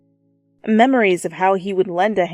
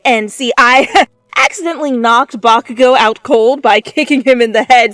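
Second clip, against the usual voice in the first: nervous, stumbling and loud; tripping over words in embarrassment; flustered rambling; 5 semitones higher, 7 dB louder than usual. A narrator's reading. Student explaining to nurse, flustered and loud.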